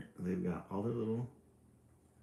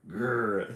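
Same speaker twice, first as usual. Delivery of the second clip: grr; 3 dB louder than usual. Acted. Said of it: "said brother".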